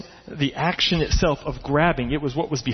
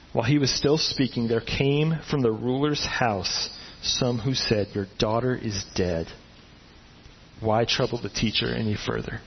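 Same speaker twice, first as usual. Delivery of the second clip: solemn reading; 3 semitones lower than usual. Acted. Reading the grim verse slowly.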